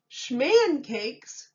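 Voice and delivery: high, loud puzzled echo; puzzled cry. A narrator's reading. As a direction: repeat it in surprise. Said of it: "cried the townspeople".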